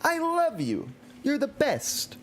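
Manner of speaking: high, sweet mock wife voice; imitating wife's cutesy message; wife's message read out. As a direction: gush like a doting wife. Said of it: "Missus Hamwich says".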